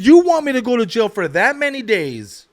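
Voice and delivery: high-pitched, indignant disbelief; incredulous protest. Retold or imitated. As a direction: protest like the sentence is absurd. Protesting sentence to the judge.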